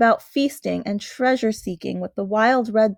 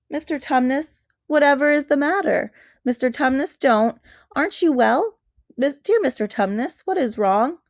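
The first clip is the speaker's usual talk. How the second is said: put-on higher, anxious little girl pleading; young girl begging to know what's wrong; worried Lucy; 4 semitones higher than usual. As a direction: coax a crying friend, worried. Lucy pleading with weeping faun.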